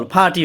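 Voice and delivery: "ফাটি" with no R before the T; silent middle R. Shown as a demonstration. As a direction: say party as "ফাটি", dropping the middle R. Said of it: "মাঝখানে আরের উচ্চারণ হবে না".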